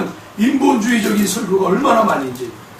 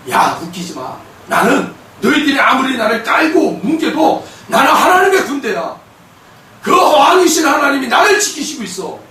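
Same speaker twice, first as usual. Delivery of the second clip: defiant declaration; 4 semitones higher than usual. Acted. Believer answering hostile forces, defiant declaration. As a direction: stand your ground and proclaim it. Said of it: "그렇게 우리가 선포하는 거예요".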